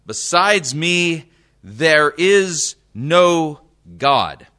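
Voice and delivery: solemn preacher reading Isaiah aloud; scripture reading. Acted. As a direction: proclaim the verses like the voice of God.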